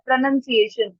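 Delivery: "प्रोनाउंसिएशन" as pruh-nun-see-AY-shun; reduced O. Shown as a demonstration. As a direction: say "प्रोनाउंसिएशन" with little weight on the O. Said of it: "तो ओ पे कम focus होगा". ("प्रोनाउंसिएशन" में ओ पर कम ज़ोर)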